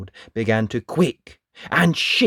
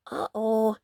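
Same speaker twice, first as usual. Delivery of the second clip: worried uh-oh; 9 semitones higher than usual. Acted. Dot sees danger.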